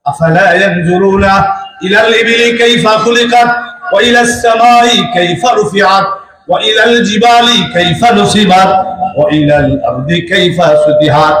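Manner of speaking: melodic chanted Arabic verse; Quran recitation. Acted. Preacher reciting a verse to the gathering, chanted. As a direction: intone the verse like a qari.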